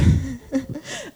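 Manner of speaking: small embarrassed laugh; real, self-conscious little laugh; apologetic laugh. Real, not acted. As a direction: laugh it off after getting emotional. Apologising for getting emotional mid-testimony.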